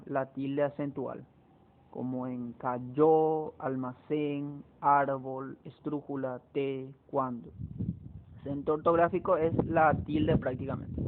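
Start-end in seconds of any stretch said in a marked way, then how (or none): 2.5-7.5 slow list, leaning on YÓ in cayó, CÉN in almacén, ÁR in árbol; stressed example words. Shown as a demonstration. Teacher giving examples of written accents, cayó to cuándo slowly stressed. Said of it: "El acento ortográfico es el acento pintado".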